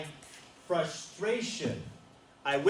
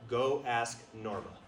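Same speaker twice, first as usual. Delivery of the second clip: "Go ask Norma" langsam und ruhig gesprochen; gently firm divine instruction; slow, calm command; 3 semitones lower, slower than usual. Retold or imitated. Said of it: "he said, pretty clearly".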